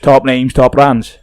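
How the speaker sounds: lightly put-on Swansea lad accent; Swansea youth. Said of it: "I'll do the Swansea youth now".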